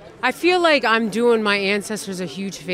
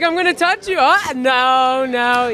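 higher-pitched playful re-enactment; mock teasing threat; 4 semitones higher, slower than usual. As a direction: act out a sibling's pestering. Acting out teasing with brother.

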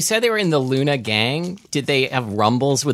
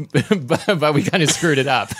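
laughing; 4 semitones higher than usual. Real, not acted. Laughing through mock ad.

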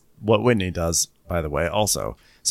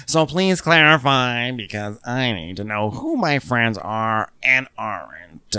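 slow mock Meredith; slower than usual. Quoting Meredith in recap.

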